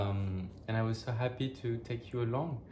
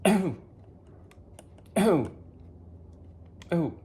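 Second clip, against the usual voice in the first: recovering breath; 5 semitones higher than usual. Real, not acted. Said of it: "I'm choking on walnuts".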